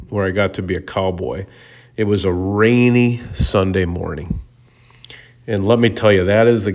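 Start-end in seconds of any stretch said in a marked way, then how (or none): 1.9-4.4 whisper. Real, not acted. Fond hungover rainy morning.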